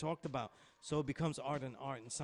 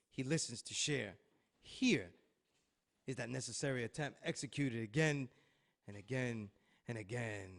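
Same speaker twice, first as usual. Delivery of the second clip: spoken word poem. Acted. Reads a dramatic poetic intro.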